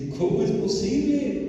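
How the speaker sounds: high, mock-weeping wail; retold tearful protest. Disciplined man crying over the injustice, high retold lament. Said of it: "me puse a llorar y a decir".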